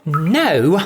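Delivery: sharp loud no; angry snap. Acted. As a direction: cut him off hard. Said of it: "snapped back upright in an angry whirl".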